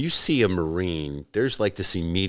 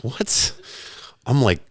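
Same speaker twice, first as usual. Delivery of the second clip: higher-pitched, baffled reaction; incredulous; 5 semitones higher than usual. Retold or imitated. Reacting to his buddy's love of credit, incredulous. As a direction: replay being thrown by a friend's announcement. Retold disbelief at friend's announcement.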